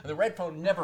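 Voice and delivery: laughing through the words; giggling while telling it; amused, laughing aloud. Real, not acted.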